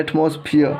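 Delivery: "एटमॉस्फेयर" said "atmos-phee-yuh", R dropped; ERE read as "iya". Shown as a demonstration. Teacher answering how it is read, "एटमॉस्फेयर" ending in ee-uh. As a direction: end "एटमॉस्फेयर" on a gliding ee-uh. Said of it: "इसको क्या पढ़ा जाता है".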